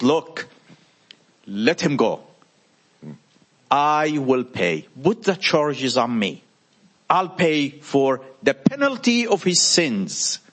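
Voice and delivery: slow kind pleading. Retold or imitated. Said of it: "And he said".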